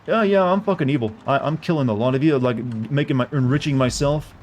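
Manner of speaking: lightly voiced Eastern European dictator admitting evil; mock Eastern European villain. Streamer mocking a villain in a light Eastern European accent. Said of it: "the obvious Russian accent in his voice during that impression".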